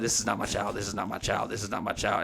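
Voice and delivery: retold muttering to steady oneself; muttered self-talk. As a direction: say it under the breath to yourself. Retold self-talk before grabbing child's hand.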